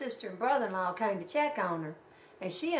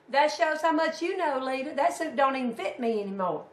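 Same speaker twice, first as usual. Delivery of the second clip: lightly voiced uncle piping up, raised pitch; uncle speaking up; 4 semitones higher, 4 dB louder than usual. Uncle correcting his wife about his burial suit, lightly imitated retort. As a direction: imitate an old husband's louder retort. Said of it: "when her man spoke up".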